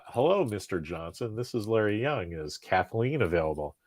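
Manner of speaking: be on your best manners for her father; polite phone voice. Retold or imitated. Kid on the phone to girlfriend's father, softly polite. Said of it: "In your best friggin' polite voice".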